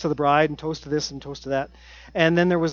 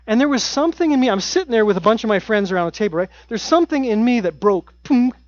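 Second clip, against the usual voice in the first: rushed emotional outburst; 4 semitones higher, 5 dB louder, faster than usual. Real, not acted. Emotional peak of story.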